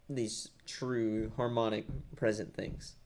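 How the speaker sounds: talking through the hiccups; speech jolted by hiccups. Real, not acted. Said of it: "Sorry, I got the hiccups right now".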